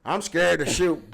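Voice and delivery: hammed-up cheesy character intros, slowing at the end; lightly voiced corny movie sidekicks; mocking stereotyped movie lines. Friend mocks the movie crew's stereotypes, lightly hammed. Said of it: "that whole stereotype of the crew".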